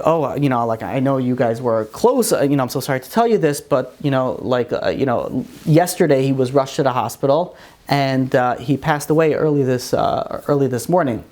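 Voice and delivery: low, hesitant, sympathetic retelling; gentle bad news. Nurse telling the boy the old man died, gently.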